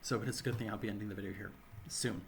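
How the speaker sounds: dry, sore throat; speaking through a sore throat. Real, not acted. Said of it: "my mouth is getting really dry and my throat is getting very sore".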